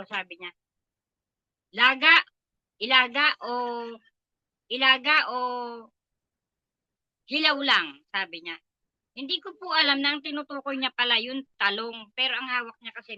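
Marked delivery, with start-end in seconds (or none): 1.7-8.1 loud, demanding retold shout; loud mock yell of an angry employer; yelling boss. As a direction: throw the question at her like an order. Employer yelling about the eggplant.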